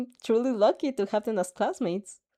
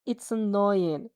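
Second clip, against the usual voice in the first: scoffing; slower than usual. Acted. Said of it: "Seiji scoffs".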